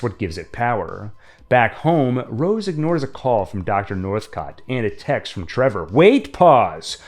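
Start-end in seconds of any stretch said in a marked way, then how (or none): 5.9-7.0 calling out to stop; sharp, louder halt; urgent interruption. Real, not acted. Stopping the recap abruptly.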